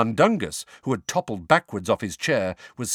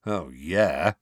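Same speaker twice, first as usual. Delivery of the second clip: sarcastic; 4 semitones lower than usual. Acted. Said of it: "said Sirius sarcastically".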